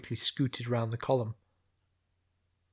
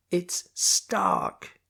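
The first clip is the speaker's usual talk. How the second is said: unvoiced, half-swallowed name; 7 semitones higher, 5 dB louder than usual. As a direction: say it without carrying. First try, guard can't hear.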